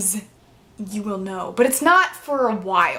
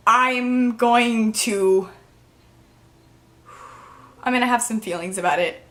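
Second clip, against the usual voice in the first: choked up. Real, not acted. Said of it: "I, like, get really emotional about it".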